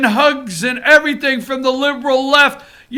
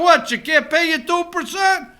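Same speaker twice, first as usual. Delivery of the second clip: imitating Trump; 3 semitones higher, 4 dB quieter than usual. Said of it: "he looks at Trudeau".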